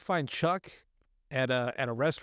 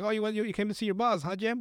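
mocking taunt; 6 semitones higher than usual. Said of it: "Dan's like".

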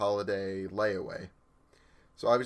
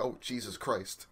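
exasperated; 6 dB quieter than usual. Retold or imitated. Exasperated at the arguing pair.

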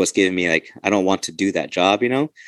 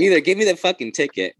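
exasperated venting; 9 semitones higher than usual. Retold or imitated. Venting at officer who pulled him over.

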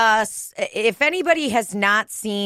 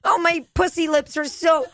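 much higher, slow moaning lady voice; mock Rose; 10 semitones higher than usual. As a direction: moan Jack's name like a swooning heroine. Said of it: "is like".

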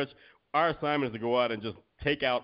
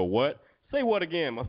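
flustered guest; 6 semitones higher, 3 dB louder, slower than usual. Retold or imitated. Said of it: "They go".

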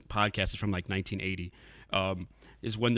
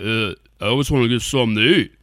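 Brian Dennehy impression; 6 dB louder than usual. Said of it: "It's a terrible Brian Dennehy bri-, impression".

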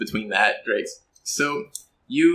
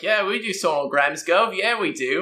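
put-on higher, eager kid chorus voice; other street kids; 8 semitones higher than usual. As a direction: chime in like a pack of cheeky kids. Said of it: "The other boys are like".

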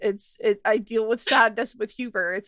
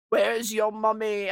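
slow mock British grandpa; lightly imitated British accent; slower than usual. Grandpa asking for mummy at night, light British accent. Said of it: "With a British accent?".

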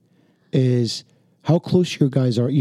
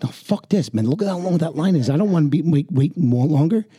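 higher-pitched impatient grumble, unwilling to wait; impatient griping; 4 semitones higher than usual. Retold or imitated. Man at the gas station griping about the line, pitched up. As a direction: whine about the long line. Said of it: "And I'm like".

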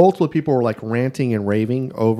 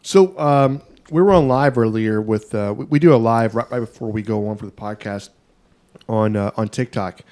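chewing while talking; talking through a bite of steak; mouth full. Real, not acted. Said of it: "hear me, uh, chewing right now".

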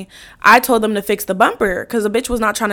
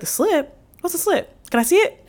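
curious cop; 6 semitones higher, 5 dB quieter than usual. Retold or imitated. Voices the cop's curious question.

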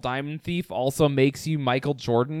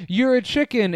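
bad actor line; 8 semitones higher, 4 dB louder than usual. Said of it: "He might as well have just said".

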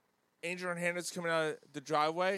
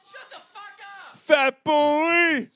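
high angry yell; angry shout; 13 semitones higher, 12 dB louder, slower than usual. Retold or imitated. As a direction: bark the insult. Clip drop insult.

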